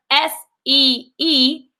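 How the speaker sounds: letters spelled out slowly; spelling slowly. Shown as a demonstration. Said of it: "So this word".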